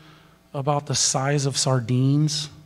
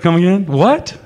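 incredulous disbelief; 6 semitones higher, 9 dB louder than usual. Retold or imitated. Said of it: "you're like".

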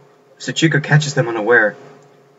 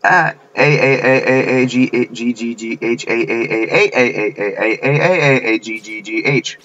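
chanted string of letters, surging and dropping; spelt-out scream. Acted. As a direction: rattle off the letters as a run-on cry.

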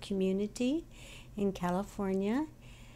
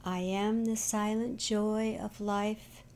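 slow, measured devotional reading with long pauses; meditative reading. Acted. Guide reads from a book of meditations to online listeners, meditative reading. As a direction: read each affirmation slowly and let it settle.

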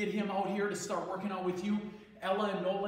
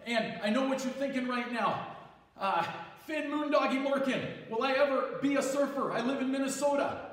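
surfer cousin. Acted. Gym teacher as his surfer cousin leading kids, lightly laid-back surfer voice. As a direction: play the chill Hawaiian surfer cousin, upbeat. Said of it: "I have a cousin staying with me".

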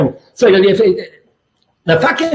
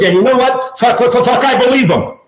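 higher, laughing coach voice; impression of Bernsey; 5 semitones higher than usual. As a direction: play the coach giving in with a laugh. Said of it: "He goes".

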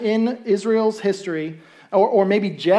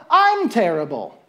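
sad admission; slower than usual. Acted. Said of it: "and then go".

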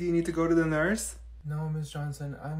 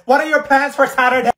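much louder, higher, over the noise; loud, higher yelled question; loud chatter; 8 semitones higher, 12 dB louder than usual. Acted. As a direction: shout it across the room.

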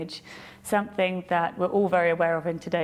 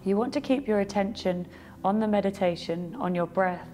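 calm guided-meditation delivery with long pauses; unhurried meditation guide, pausing after each thought; 4 dB quieter than usual. Acted. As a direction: lead them gently through a reflection, leaving space between phrases.

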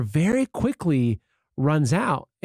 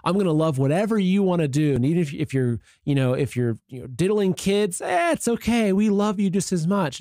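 higher, sing-song mock of a permissive preacher; lightly mocking, breezy tone; 4 semitones higher than usual. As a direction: parody the excuse with a lilting, higher voice. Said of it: "that's become the excuse nowadays".

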